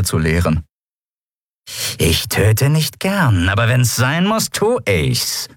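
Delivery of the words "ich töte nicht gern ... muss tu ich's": slow, menacing pirate growl; rumbled threat. Acted. Pirate warning the boy she will kill, rumbled menace. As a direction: rumble it, drawing the words out. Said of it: "brummte die Skria".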